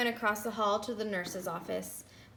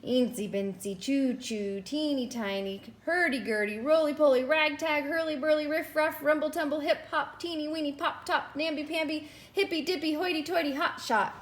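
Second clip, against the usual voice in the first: slow then faster; 5 semitones higher than usual. Acted. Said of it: "started slowly, but picked up speed".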